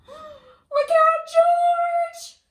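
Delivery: loud, high panicked call; alarmed warning. Acted. Reader warning George as the sled goes too fast, loud alarm.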